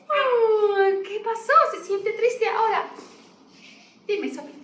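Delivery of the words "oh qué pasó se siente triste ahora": bear speaks. Acted. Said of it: "el oso dice".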